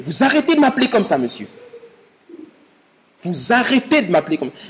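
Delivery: mild mock anger. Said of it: "il se met en colère".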